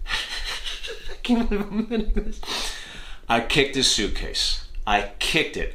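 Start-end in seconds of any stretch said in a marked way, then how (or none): 0.1-2.4 laughing confession. Real, not acted. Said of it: "laughing at himself".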